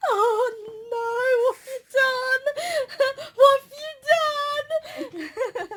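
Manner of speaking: high, loud, laughing mock panic; mock dismay, laughing. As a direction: squeal it out in laughing horror. Her own panicked reaction retold.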